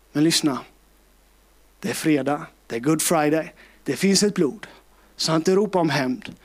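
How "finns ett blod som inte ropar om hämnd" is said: slow preaching litany. Acted.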